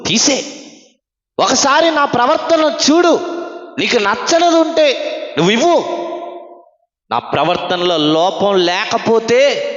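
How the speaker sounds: high, loud challenge to God, building; loud demand. Retold or imitated. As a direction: argue with God, voice climbing. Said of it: "గట్టిగా అడిగాడు". (గట్టిగా, ఎత్తైన స్వరంతో దేవుణ్ణి ప్రశ్నించడం)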